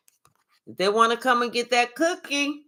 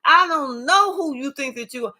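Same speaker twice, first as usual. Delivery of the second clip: higher, fast scolding; going off on him; 4 semitones higher than usual. Retold or imitated. A mild mock of her going off on him. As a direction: tell him off, sharp and quick. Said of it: "she even looked like she going off on him".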